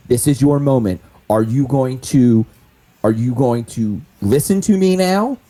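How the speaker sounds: firm, mildly aggressive insistence. Acted. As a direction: press hard to get her attention, just short of shouting. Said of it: "I'm being, like, very aggressive".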